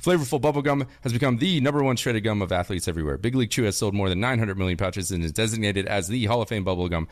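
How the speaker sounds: rapid-fire ad read; fast ad read. Pretend. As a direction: blaze through it like an ad. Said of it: "how quick I read through that".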